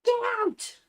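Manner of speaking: high, sharp shout at cat. Real, not acted. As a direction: shoo the cat off loudly. Shooing the cat away.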